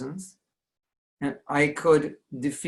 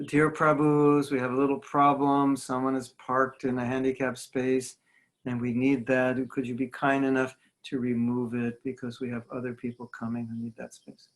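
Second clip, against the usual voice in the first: polite British announcement. Retold or imitated. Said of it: "they're making the announcements".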